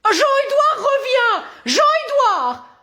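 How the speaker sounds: high, drawn-out call after a runaway son; calling after him. Acted. Mother calling her runaway son back, high and pleading.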